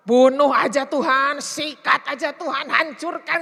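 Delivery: loud, slow angry demand; a venting psalmist shouting at God; David ranting at God. Retold or imitated. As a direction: hammer out each plea like a furious king. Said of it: "Daud itu kan suka ngomel-ngomel".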